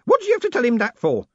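high, loud, indignant; old man's yell. A narrator's reading. Grote scolding the woman for telling, yelling. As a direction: shout the complaint at her. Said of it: "Grote yelled".

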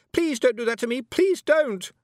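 high, loud pleading cry; frightened shout. A narrator's reading. Anagramma shouts at Tiffany in fear, loud, high pleading. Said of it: "she shouted".

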